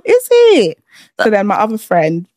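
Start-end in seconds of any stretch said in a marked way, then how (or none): 0.0-0.8 high-pitched, drawn-out disbelieving question; retold incredulity. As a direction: replay your disbelief, voice leaping up. Retelling her reaction to the news.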